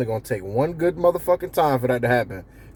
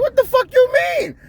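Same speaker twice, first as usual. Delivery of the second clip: angry manager; 13 semitones higher than usual. Retold or imitated. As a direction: yell at him like a furious manager. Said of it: "he gonna be like".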